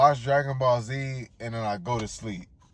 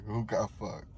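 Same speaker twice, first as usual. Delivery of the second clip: laughing taunt; 6 dB quieter than usual. Real, not acted.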